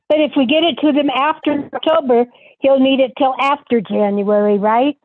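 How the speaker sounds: breaking up over a bad line; static-filled audio, words cut up; garbled connection. Real, not acted. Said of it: "Garbled and staticky".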